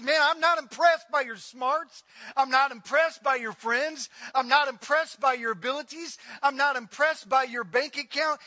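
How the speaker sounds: loud, hammering each repeated line; forceful rebuke. Acted. Preacher voicing God's rebuke to Edom, forceful. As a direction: voice a scornful, unimpressed rebuke.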